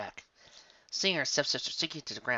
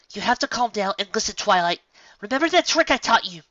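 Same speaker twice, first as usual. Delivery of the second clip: firm Cadance; 9 semitones higher, 9 dB louder than usual. A narrator's reading. Cadance coaxing Twilight.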